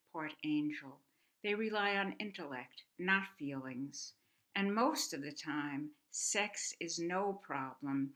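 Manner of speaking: measured, deliberate poem reading; poetry reading. Acted. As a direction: read it as verse, pausing at the line breaks. Reads second poem aloud.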